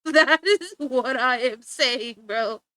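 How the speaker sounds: slow, laughing emphasis on every word; laughing, drawn-out agreement. Real, not acted. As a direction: spell it out while laughing. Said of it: "That's what I'm saying".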